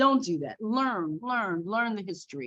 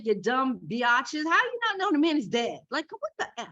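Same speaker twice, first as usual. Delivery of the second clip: exasperated scolding; 4 semitones higher than usual. Retold or imitated. Mocking girls who didn't know.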